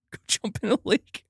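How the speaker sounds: lightly put-on voice, saying the phrase; mock voice. Shown as a demonstration. Streamer mocking an old idiom, lightly put-on voice. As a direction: play with the odd saying in a put-on voice.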